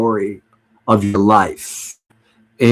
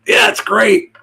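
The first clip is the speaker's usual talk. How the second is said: mock beer snob; 9 semitones higher, slower than usual. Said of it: "I can't be one of those like".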